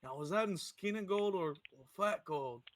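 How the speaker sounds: a hammed-up oafish orc showing off his gold; dumb orc voice. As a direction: play the biggest dumbass orc, boasting. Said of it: "if I was playing an orc".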